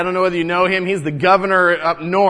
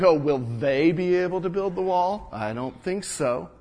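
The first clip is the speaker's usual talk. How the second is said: mock taunt; 3 dB quieter than usual. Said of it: "he says things like".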